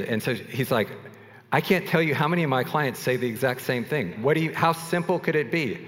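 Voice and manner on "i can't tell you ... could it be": fast, higher-pitched exasperated rant; growing intensity. Retold or imitated. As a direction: rattle it off, building frustration. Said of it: "he just gets more and more, like, intense".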